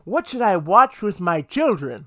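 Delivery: wondering parent. Pretend. Parent picking a family movie, in a lightly put-on puzzled voice. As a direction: play a puzzled parent asking aloud. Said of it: "if you're thinking".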